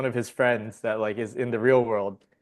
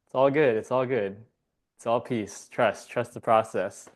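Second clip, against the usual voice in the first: calm master. Retold or imitated. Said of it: "the master's just like".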